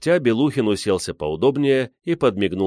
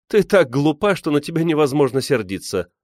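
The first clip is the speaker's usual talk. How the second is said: laughing; 7 semitones higher than usual. A narrator's reading. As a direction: say it through amused affection. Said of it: "рассмеялась Невская".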